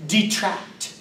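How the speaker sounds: "detract" said clearly as de-TRACT; "detract" carefully, both syllables distinct; careful pronunciation. Shown as a demonstration. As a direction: model "detract" for learners, stressing the second syllable. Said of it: "The word is pronounced detract".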